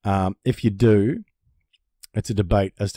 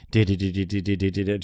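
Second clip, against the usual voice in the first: nervous knee-bounce noise; 4 semitones lower, 4 dB quieter than usual. Retold or imitated. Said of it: "you bounce your knee 'cause you're just freaking out".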